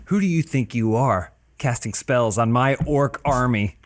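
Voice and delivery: cold rasping evil emperor. Acted. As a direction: bark the order like a warlord. War chief scolds caster.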